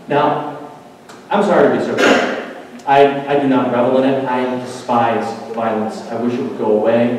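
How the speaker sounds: ordinary talk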